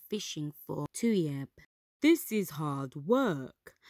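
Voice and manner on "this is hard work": slow, firm complaint; Milo's voice. Acted. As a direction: declare it like a tired worker. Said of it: "Milo declared".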